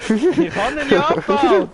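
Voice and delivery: "Ich kann ihn ja abbauen" in a slow, very high, loud squeak; mock squeaky voice. Friend answers the nagging player in a squeaky, slow cartoon voice.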